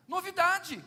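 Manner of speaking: proclaimed. Real, not acted. Preacher proclaiming to the congregation, loud and high. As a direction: call it out to the church.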